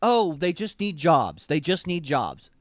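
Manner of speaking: slow, drawn-out parody of simplistic sympathy; mock naive. Parodying liberals who excuse the enemy, mock naive.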